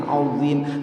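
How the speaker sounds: "Azim" with a thick dho, lips forward; bibir maju. Shown as a demonstration. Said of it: "Maju bibirnya". ("Azim" dengan dho tebal, bibir maju)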